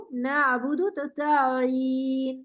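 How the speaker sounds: نعبد تو تعین slow with a soft ع; soft ain. Shown as a demonstration. Teacher shows softness in ain, slowly. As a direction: soften the ع completely. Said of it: "نرمی، بالکل نرمی آئین میں".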